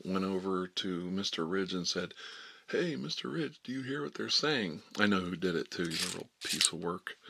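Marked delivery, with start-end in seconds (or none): 2.7-4.8 higher-pitched telltale question; pitched-up, needling report to a teacher; mock tattletale. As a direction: imitate a snitch running to the teacher.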